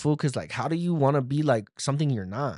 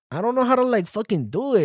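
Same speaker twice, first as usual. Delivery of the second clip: mock crying; 9 semitones higher than usual. Podcaster voicing his crying self, high fake sob. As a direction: whine it out like a crying little guy. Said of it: "starts crying".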